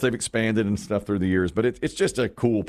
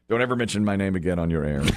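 quick mock warning; 4 semitones lower, faster than usual. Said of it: "Clink was saying".

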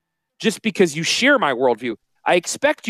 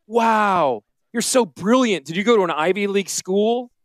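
mock snooty nasal voice; sarcastic praise in a pinched, nasal put-on; talking through the nostrils; 6 semitones higher than usual. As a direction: sneer the compliment out through the nose. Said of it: "I'm talking at you through my nostrils".

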